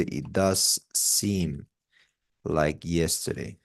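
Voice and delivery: DOES held long, slow delivery; slow right down on "does seem"; stress on does. Shown as a demonstration. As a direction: stretch "does" for emphasis. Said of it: "you could say".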